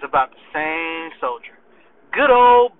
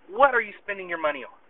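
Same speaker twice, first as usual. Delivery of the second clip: serious; 5 dB quieter, faster than usual. Retold or imitated. Sergeant pressing his soldier privately about money, seriously. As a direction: drop the joking and ask in earnest. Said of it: "No, seriously".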